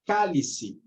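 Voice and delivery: "cálice" with a strong first CÁ; teacher showing the stressed CÁ of "cálice". Shown as a demonstration. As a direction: lean on CÁ in "cálice", then let it fall. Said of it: "a sílaba tônica é o K".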